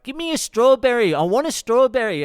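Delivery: put-on high, loud demanding child; imitated kid yelling. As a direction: yell across the table like a pestering kid. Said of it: "he keeps yelling at his dad".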